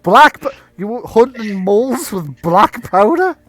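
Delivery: high, loud disbelieving officer; incredulous. Acted. Police officer hears Bill was using black powder, incredulous. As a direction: throw it back as an astonished question. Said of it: "with a incredulity going".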